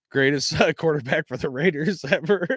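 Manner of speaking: words broken up by laughter; laughing. Real, not acted. Vlogger mocking a bad quarterback to viewers, laughing through it. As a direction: try to say it straight but crack up. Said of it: "I can't even say it without laughing".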